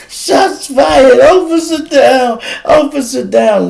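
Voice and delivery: high, loud officer down call; wounded cop on the radio. Retold or imitated. Shot cop radioing for help, loud high call.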